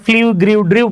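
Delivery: ফ্লিউ, গ্রিউ, ড্রিউ with an i glide before u; wrong pronunciations. Shown as a demonstration. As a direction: list the common mistakes ফ্লিউ গ্রিউ ড্রিউ. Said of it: "মূলত সেটা কিন্তু রং". (ভুল উচ্চারণ, ফ্লিউ গ্রিউ ড্রিউ)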